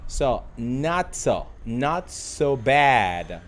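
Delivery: very slow, loud "not so bad" with a drawn-out "bad"; teacher slowly drilling "not so bad"; slow pronunciation drill. Shown as a demonstration. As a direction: stretch "bad" for learners to copy. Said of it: "review the pronunciation".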